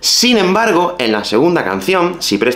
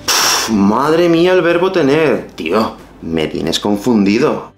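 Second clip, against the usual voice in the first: confused learner; slower than usual. Acted. Confused learner acted sketch.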